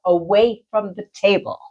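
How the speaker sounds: slow, steady command from beyond; a hint of an otherworldly guide, slowed; calm spirit voice. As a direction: spirit guide telling the healer to step back. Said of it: "And I heard".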